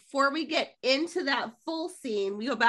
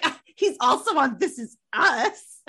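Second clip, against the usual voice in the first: confident; 2 semitones higher, 3 dB louder than usual. Retold or imitated. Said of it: "the way you said it with such confidence".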